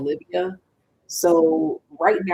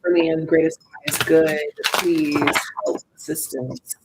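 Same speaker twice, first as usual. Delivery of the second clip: invocation prayer; 3 dB louder, slower than usual. Real, not acted. Invoking spirit team for reading.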